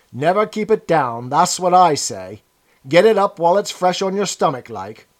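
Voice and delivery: put-on rough, loud, boozy old woman; drunk old woman. Drunk old woman gives advice.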